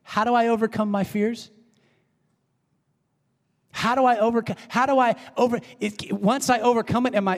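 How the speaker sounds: Paul's questions. Retold or imitated. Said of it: "what does he say".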